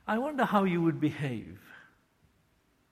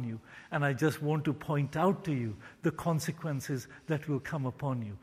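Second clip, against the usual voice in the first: kind fatherly. Shown as a demonstration. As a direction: speak like a loving father to a rebel child. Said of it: "the tone of a father who kindly and graciously".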